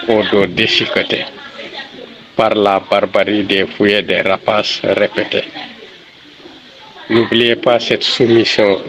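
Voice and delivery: measured poem recitation, pauses after each line; récitation de poème. Shown as a demonstration. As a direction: recite it as a solemn litany, phrase by phrase. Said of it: "Récitation". (récitation de poème posée, vers par vers)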